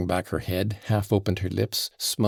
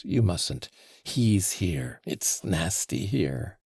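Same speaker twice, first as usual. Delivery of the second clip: imploring; 2 semitones higher, slower than usual. Acted. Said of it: "in an imploring voice".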